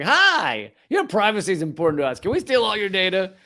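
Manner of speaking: quick, chirpy pitch with a high "Hi"; mock-friendly website greeting. Website asking a visitor for data, mock-friendly and quick. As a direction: greet the user brightly while asking to rob them.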